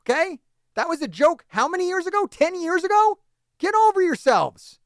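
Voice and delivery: real angry tirade at New York fans; furious rant. Real, not acted. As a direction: tear into them. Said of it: "I'm too fucking mad".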